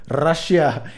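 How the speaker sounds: "রাশিয়া" with a strong rolled r; Russian-style rolled r; foreign rolled r. Shown as a demonstration. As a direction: roll the r hard in "রাশিয়া". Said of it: "এইভাবে হয়তো বা বলবে।".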